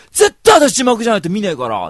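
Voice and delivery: hammed-up shouting girl; angry yell. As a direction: yell she'll only watch subtitles. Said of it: "って言うわけ".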